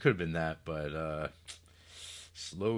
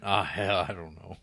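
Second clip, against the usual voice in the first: Nick Nolte voice; 4 dB louder than usual. Retold or imitated. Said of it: "he went".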